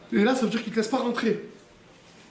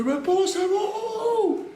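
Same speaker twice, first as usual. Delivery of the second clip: rising into a high, angry shout; retold angry shout; 12 semitones higher, much slower than usual. Father wrestling free of his uncles, rising high shout. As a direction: shake them off, yelling.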